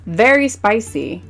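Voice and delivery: lightly voiced waiter saying very spicy; imitating waiter. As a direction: mimic the waiter's slow warning. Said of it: "And he goes".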